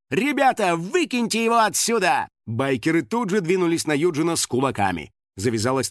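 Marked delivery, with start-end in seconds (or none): 0.1-2.3 high, raised rallying shout; hot-headed cry. A narrator's reading. Анна orders bikers to eject him, heated. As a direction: call the gang to action, fired up. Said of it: "запальчиво крикнула Анна".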